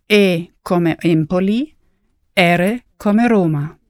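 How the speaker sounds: spelling a name letter by letter. Shown as a demonstration. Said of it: "Come si scrive?".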